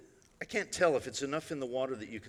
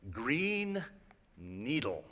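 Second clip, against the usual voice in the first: robot voice; much slower than usual. Retold or imitated. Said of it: "you're going to hear the voice say".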